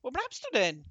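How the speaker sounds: loud, rising anger at the servant; impatient shouting. Acted. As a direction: demand an answer, loudly. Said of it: "rief Zwackelmann".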